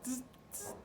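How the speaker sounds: whispered monkey tss; monkey tsk-tsk. Acted. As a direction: tease back like a cheeky monkey.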